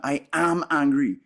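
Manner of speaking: firm, emphatic statement of anger; identified with anger. Shown as a demonstration. Teacher contrasting being anger with watching it, emphatic declaration. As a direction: own the anger as identity, firmly. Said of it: "a difference of, of the texture".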